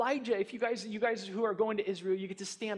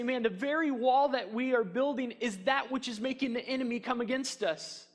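discouraged builders voiced; 4 semitones higher than usual. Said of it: "they could say".

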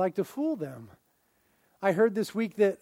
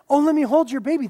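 quick, bright mock plea, a little louder; eager baby-grabber; 4 semitones higher, 5 dB louder, faster than usual. Pastor mimics visitors begging to hold his baby, mock eager. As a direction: gush like a stranger reaching for the baby.

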